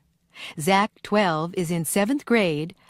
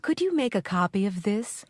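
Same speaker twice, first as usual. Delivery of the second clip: polite request; 3 dB quieter than usual. Shown as a demonstration. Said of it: "Write P for polite, I for impolite".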